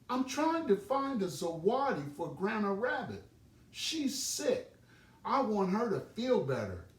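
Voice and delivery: put-on a small child full of his plan; eager Little Rabbit. Little Rabbit tells Mama Oriole his plan, high and eager.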